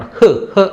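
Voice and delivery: హ్ as a bare, short h sound; vowelless consonant. Shown as a demonstration. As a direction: give హ్ no long vowel, just release it. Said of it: "దీన్ని పొల్లి పలకాలన్నమాట". (హ్ అని పొల్లుగా)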